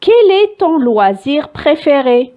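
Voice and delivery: very slow question read out for the class; teacher dictating an example question; slow dictation. Shown as a demonstration.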